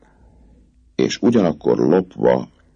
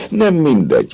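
higher, eager voice of a smooth-talking captain; the captain sweet-talking the girl, eager and higher; dashing captain; 4 dB louder than usual. A narrator's reading. Phoebus voiced by narrator.

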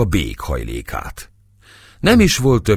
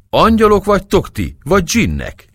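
much higher and louder cry of wonder; bey crying out in wonder at the singers; amazed shout; 13 semitones higher, 5 dB louder than usual. Acted. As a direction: shout it out in astonishment. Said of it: "kiáltotta bámulva".

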